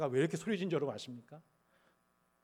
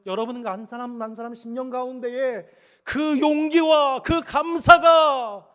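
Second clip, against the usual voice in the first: high, loud, slowed benediction; drawn-out blessing; 7 semitones higher, 14 dB louder, slower than usual. Acted. Pastor blessing the congregation, slow and loud. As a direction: stretch each word of the blessing.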